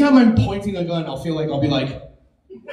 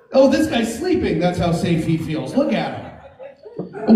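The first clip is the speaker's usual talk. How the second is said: mock tour guide; slower than usual. Comic acting out a bathroom tour, mock awe. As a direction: point things out like a proud tour guide.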